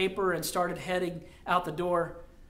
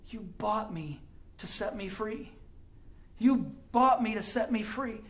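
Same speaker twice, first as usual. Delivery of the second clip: repeated in awe; 2 semitones higher, 3 dB quieter than usual. Acted. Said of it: "was heard to say over and over again".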